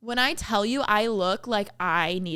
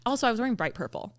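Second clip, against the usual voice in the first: whisper; 5 dB quieter, faster than usual. Real, not acted. Whispered aside.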